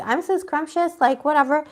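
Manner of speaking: a hint of a preening self-lover; mocking the ex. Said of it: "He's like".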